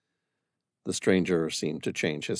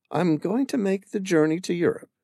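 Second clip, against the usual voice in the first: a touch of resolve in a higher woman's voice; determined; 10 semitones higher than usual. Acted. Amira telling Sam her plan, mildly determined. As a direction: set on leaving, firm but understated. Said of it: "her tone determined".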